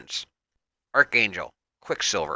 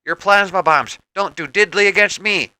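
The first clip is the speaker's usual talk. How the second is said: exclaiming; 7 semitones higher, 4 dB louder than usual. A narrator's reading. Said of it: "Rogue exclaims".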